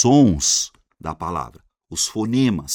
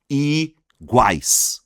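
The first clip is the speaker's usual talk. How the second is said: "Iguais" split slowly, higher and louder; syllable by syllable; 4 semitones higher, 5 dB louder than usual. Shown as a demonstration. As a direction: hold I, then land GUAIS in "Iguais". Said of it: "Duas sílabas".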